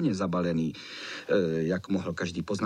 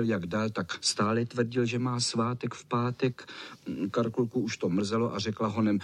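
ordinary delivery, nothing marked

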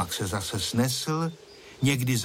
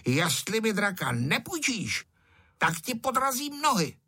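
put-on high, rising childish threat; angry shout; 9 semitones higher than usual. A narrator's reading. Angry boy Ferda threatening Honzík over the kite. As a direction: yell the threat, getting hotter. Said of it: "Ferda se začal zlobit a křičel".

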